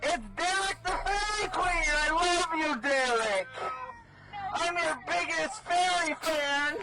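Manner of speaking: high gushing fake-fan squeal; mock fan. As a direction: gush like his biggest admirer, dripping sarcasm. Mock fan greeting to protester.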